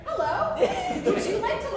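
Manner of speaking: put-on high, cheerful kids' TV puppet; chirpy puppet greeting the kids; Elmo voice. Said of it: "No, Elmo".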